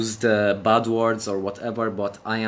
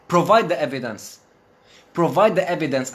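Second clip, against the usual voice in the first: angry demand; 4 semitones higher, 4 dB louder than usual. Real, not acted.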